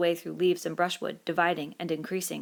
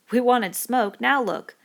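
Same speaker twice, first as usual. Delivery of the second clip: put-on boy's voice; 6 semitones higher, 6 dB louder, slower than usual. Twins reproach the boys.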